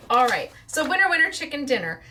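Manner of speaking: bouncy sing-song winner call; cheerful catchphrase. Real, not acted. Vlogger kicking off the giveaway, sing-song and bright. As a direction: announce it like a game-show host.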